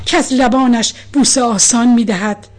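impassioned love poem, rising and subsiding; measured verse reading, strong openings, softened line endings; poetry recitation. A narrator's reading. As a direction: recite with feeling, long pauses between verses.

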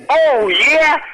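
drawn-out, rising "Oh, yeah"; building rock cry. Shown as a demonstration. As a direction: stretch the vowels, build it up. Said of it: "cada vez con más intensidad y alargando las vocales".

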